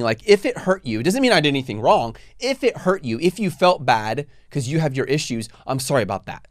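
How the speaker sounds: condescending non-apology, leaning on the ifs. Shown as a demonstration. Shifting blame while apologizing, condescending. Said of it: "That's almost condescending".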